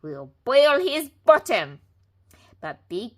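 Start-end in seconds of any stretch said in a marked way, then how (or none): 0.0-1.8 higher, much louder slow gleeful threat; chuckling pigs. A narrator's reading. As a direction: gloat over the plan. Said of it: "they chuckled".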